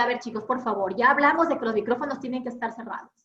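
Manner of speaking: brisk, impatient reminder to the class; firm scolding tone. Shown as a demonstration. Teacher scolding students about microphones, impatient firm tone. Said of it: "lo dije de otra manera".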